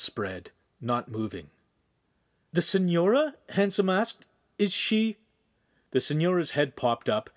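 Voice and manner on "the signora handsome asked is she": high, rising, afraid to ask; fearful question. A narrator's reading. Fearing the signora is dead.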